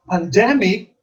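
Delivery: "pandemic" as pan-DEM-ic; second-syllable stress. Shown as a demonstration. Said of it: "the second syllable is accented".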